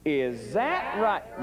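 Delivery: "Is that right?" dragged and falling; very slow question. Shown as a demonstration. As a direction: drawl it out with a falling end. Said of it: "No, no, you got to go up".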